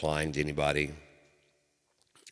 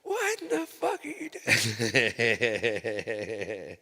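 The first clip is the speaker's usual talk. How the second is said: stunned dad; 7 semitones higher, 3 dB louder than usual. Retold or imitated. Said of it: "my dad comes in".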